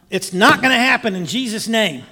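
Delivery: sudden loud outburst; blurted rebuke. Retold or imitated. Passenger rebukes a vision of the plane failing, blurted loudly. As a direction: blurt it out as a forceful declaration. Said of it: "I blurt out".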